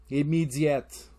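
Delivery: slow French-tinged "Immediate"; French-style accent. Shown as a demonstration. French listener spotting an accent, French-accented "Immediate". Repeats word after accent talk.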